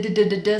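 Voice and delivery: "d, d, d, d" as quick repeated tongue taps; American d. Shown as a demonstration. Coach drills the American d, rapid repeated taps. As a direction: tap out "d, d, d, d" in a rapid string. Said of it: "I have the American d".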